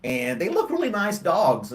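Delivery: slow words through a yawn. Real, not acted. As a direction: talk while yawning. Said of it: "I keep yawning".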